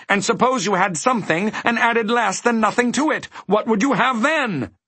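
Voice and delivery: high-pitched, brisk teacher figure; explaining dodecahedron. A narrator's reading. Dodecahedron teaching Milo arithmetic, assured. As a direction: quiz in a very high character voice.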